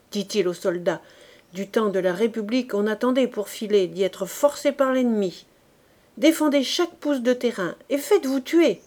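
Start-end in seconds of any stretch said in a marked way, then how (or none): 1.5-8.8 a raised, cursing officer's cry; swearing shout. Acted. Old commander to his soldiers, raised cursing shout. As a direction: bark at the retreating troops. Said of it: "s'écriait-il en jurant".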